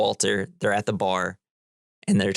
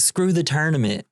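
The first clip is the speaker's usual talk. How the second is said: higher-pitched mock outburst of impatience; lightly acted fed-up dismissal, pitched up; retold dismissal; 6 semitones higher than usual. The dude tired of Walter, higher-pitched mock dismissal. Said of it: "he's like".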